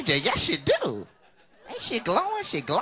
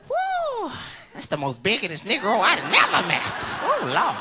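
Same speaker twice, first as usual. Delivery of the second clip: louder, higher churchgoer griping; mock outraged rant; 6 semitones higher, 4 dB louder than usual. Churchgoer griping about the pastor behind his back, loud mock outrage. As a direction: vent about the begging pastor.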